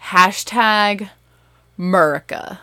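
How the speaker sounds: "hashtag Murica" as a loud, proud announcement; slangy Murica. Shown as a demonstration. Mom revealing the family costume theme, punched slangy "Murica". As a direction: punch out "Murica" with the first syllable of America dropped. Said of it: "apostrophe M U R I C A".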